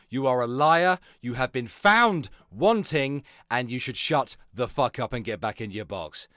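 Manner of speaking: emphatic telling-off, slowing to spell out the verdict; angry denunciation. Real, not acted. Streamer calling DC a liar, angry telling-off. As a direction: lay down the verdict angrily.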